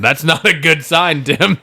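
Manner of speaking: talking through a laugh. Real, not acted. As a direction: laugh while teasing. Laughing at yawn.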